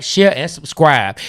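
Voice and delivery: slow, deliberate "share, and subscribe"; over-clear slow call to subscribe; spelled out. Shown as a demonstration. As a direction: lay each word out slowly. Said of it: "lay it all the way out".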